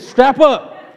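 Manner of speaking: rally the men, half joking; David rallying his men, hammed-up fury; mock battle cry. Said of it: "But he said".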